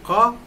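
क said alone as a single k syllable; isolated sound demo. Shown as a demonstration. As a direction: sound out क by itself, then stop. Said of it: "दोनों जुड़ करके मिले". (क अकेला, अलग करके)

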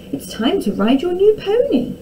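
high, singsong maid voice; chivvying maid. A narrator's reading. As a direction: coax the reluctant prince along. Maid chivvying the reluctant prince.

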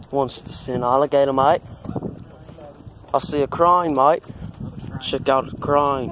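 lightly put-on Australian accent; a playful touch of Aussie accent. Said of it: "Australian voice".

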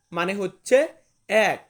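normal talking voice

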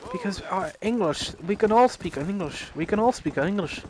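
lightly voiced old man, quick. Old man explaining why nobody speaks Gaelic, lightly imitated. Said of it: "there was this old man".

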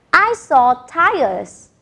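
each word slow and clear; slow model sentence. Shown as a demonstration. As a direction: say it slowly for them to echo. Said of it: "Listen again and repeat".

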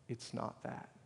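very soft, near-murmured answer; quiet retold reply; hushed reply. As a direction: barely voice it, gently. Crying lady's answer, retold.

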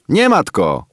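high, loud quick blurt. A narrator's reading. Kim blurts an answer to the woman, high quick retort. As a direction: fire it back without thinking. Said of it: "wypalił Kim bez namysłu".

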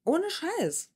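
high-pitched, exasperated objection; indignant defence. Real, not acted. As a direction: protest on his behalf, fed up. Reactor indignantly defends man in clip.

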